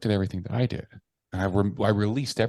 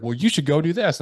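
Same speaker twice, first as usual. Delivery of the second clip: mentor voice; 8 semitones higher, 4 dB louder than usual. Retold or imitated.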